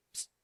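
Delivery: short hushing psst; sharp psst. Retold or imitated. Pastor silences a man talking over him, sharp psst. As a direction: get his attention with a psst.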